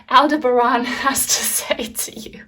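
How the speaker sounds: Aldebaran said the French way, stress on the last syllable, breathy with a laugh; a slip into a French accent on Aldebaran; unintentional French accent. Real, not acted. Tarot reader slipping into a French accent after thanking Aurore from France. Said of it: "That was an unintentional French accent".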